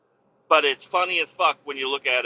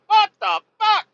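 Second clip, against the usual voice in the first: high, louder dazed outburst; imitating stunned driver; 8 dB louder than usual. The pulled-out driver reacting, high bewildered imitation. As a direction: play him bewildered. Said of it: "He's like".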